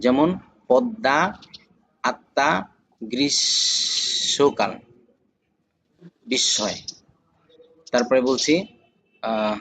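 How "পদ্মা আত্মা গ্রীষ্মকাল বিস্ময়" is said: spaced-out teaching examples, পদ্মা and আত্মা with a held double consonant; doubled consonant demo. Shown as a demonstration. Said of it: "সেই বর্ণকে দুইবার উচ্চারণ করাবে". (পদ্মা, আত্মা শব্দে যুক্ত বর্ণ দুইবার উচ্চারণ করে দেখানো)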